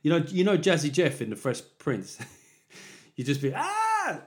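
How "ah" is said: very high, comic falling scream; long high-pitched cartoon cry; mock scream. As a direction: yelp like someone thrown out of a house. Imitates teenager flung from house.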